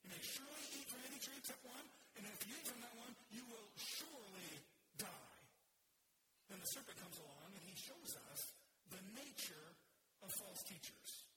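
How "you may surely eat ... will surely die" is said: "surely" stressed in both halves, slowing onto "surely die"; emphatic. Shown as a demonstration. God's command to Adam, emphatic on "surely". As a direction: hit each "surely", draw out the last one. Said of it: "It's emphatic".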